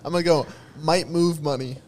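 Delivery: laughing through the words. Real, not acted. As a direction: giggle while saying it. Laughing while giving answer.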